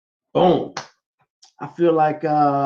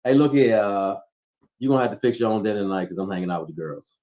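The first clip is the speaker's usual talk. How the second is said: mock bossy announcement; 6 semitones lower, 5 dB quieter, faster than usual. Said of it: "as opposed to".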